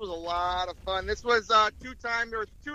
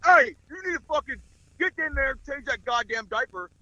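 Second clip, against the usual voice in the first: hardcore army dad; 4 semitones higher, 5 dB louder than usual. Retold or imitated. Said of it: "he's, like, super hardcore all the time".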